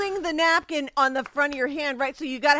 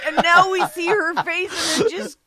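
laughing; 4 semitones higher, 4 dB louder than usual. Real, not acted. Co-host laughing, picturing it.

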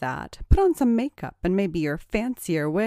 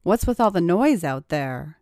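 mildly raised voice; shouting; 5 semitones higher than usual. A narrator's reading. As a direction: call out in mild annoyance. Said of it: "He heard her shouting".

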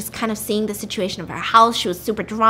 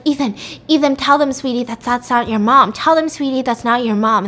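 mild acted urgent pleading; retold freaking out; 2 semitones higher, 4 dB louder than usual. Woman pleading with Ethan to tell them, mildly frantic. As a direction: plead insistently, voice lifting on the appeals. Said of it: "so she starts freaking out".

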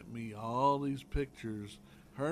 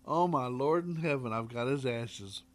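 mock shock; 2 semitones higher, 6 dB louder than usual. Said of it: "She says".

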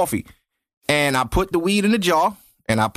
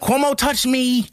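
mock accuser voice; 7 semitones higher than usual. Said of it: "Now it's people saying".

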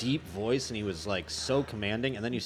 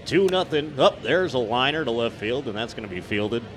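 baseball announcer. Shown as a demonstration. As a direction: call the game like a radio announcer, drawing out Castellanos. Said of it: "it's like".

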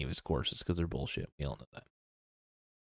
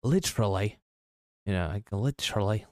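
mock British accent. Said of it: "I just gotta say literally all the time".

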